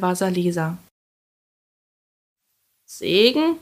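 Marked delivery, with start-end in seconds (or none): 2.8-3.6 high rising exclamation of disbelief; exclaimed. A narrator's reading. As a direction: cry it out as an incredulous question. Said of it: "rief die Baba Yaga".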